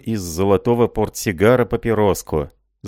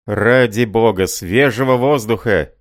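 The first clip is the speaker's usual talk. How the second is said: loud exasperated cry; shouting; 3 semitones higher, 4 dB louder than usual. Acted. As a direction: shout for fresh air. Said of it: "крикнул Рай".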